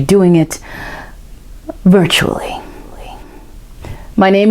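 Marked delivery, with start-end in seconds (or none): 1.8-2.6 whisper. Acted. Playful whispered reveal.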